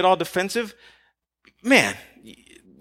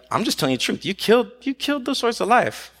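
just telling it straight; matter-of-fact truth-telling; 4 semitones higher than usual. Acted. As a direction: state a hard truth without anger. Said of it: "or if he was just like".

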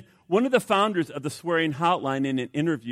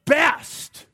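higher, louder, slow disbelieving jab; incredulous scoff; 3 semitones higher, 3 dB louder than usual. Retold or imitated. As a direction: scoff at the weak methods. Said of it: "I look at this and I say".

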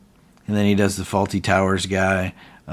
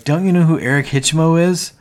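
high, loud incredulous demand; outraged that nobody gets it; raised, disbelieving challenge; indignant; 8 semitones higher, 6 dB louder than usual. Retold or imitated. David indignant at silent crowd.

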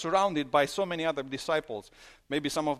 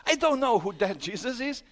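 high, loud panicked denial; 9 semitones higher, 6 dB louder than usual. Retold or imitated. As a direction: deny it loudly, cornered. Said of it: "And says".

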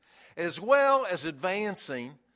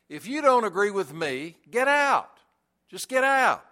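curt, raised get out; dismissive; 3 semitones higher than usual. Retold or imitated. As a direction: brush them off sharply. Quoting exclusive Christians dismissively.

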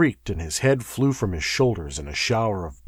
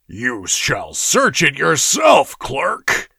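mocking humor; 5 semitones higher, 5 dB louder, slower than usual. A narrator's reading. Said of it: "inspired to a flight of humor".

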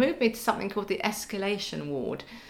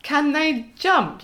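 laughing worried question; 7 semitones higher, slower than usual. Retold or imitated. Scared of mouse, asks husband.

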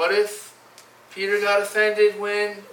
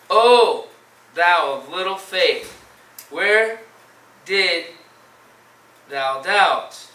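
solemn rebuke; 6 dB louder, much slower than usual. Acted. Acts out Jesus' rebuke to Peter.

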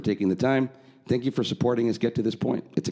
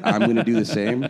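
laughing; 2 semitones higher than usual. Real, not acted. Laughs while declining accent.

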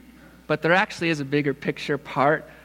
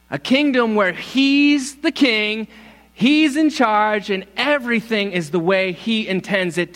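proclaiming; 5 semitones higher, 4 dB louder than usual. Real, not acted. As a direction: declare it with power. Preaching climax on kingdom.

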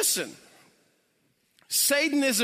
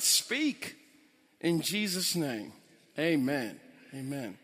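prayer. Acted. Prays before the message.

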